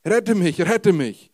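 loud, high panicked cry for help; screaming. Acted. Peter sinking in the storm, crying out to the Lord, loud panicked scream. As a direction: shout it out as if you are going under. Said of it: "schrie er".

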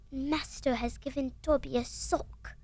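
awed little elf, drawing it out; Dobby voice. Shown as a demonstration. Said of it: "learned to do that Dobby voice".

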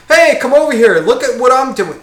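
high, loud show-off call; mock calling out. Show-off calling beachgoers over to watch, mock hollering. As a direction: imitate someone hollering for attention.

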